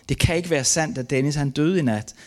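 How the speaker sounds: reliving the refusal to believe; anguished denial. Retold or imitated. Father refusing to believe his son died, anguished denial. Retold thought denying son's death.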